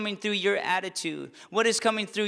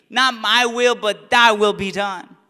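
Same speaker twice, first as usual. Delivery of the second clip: louder, ringing declaration of surrender; proclaimed prayer; 6 dB louder than usual. Acted. Preacher proclaims Jesus' Gethsemane prayer, loud and ringing. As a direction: proclaim it boldly to the church.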